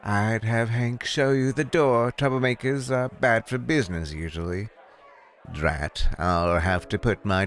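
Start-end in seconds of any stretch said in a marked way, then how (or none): 0.0-4.7 higher-pitched, coolly warning hostess; a hint of a grand bar owner, giving a polite warning; lightly voiced bar owner.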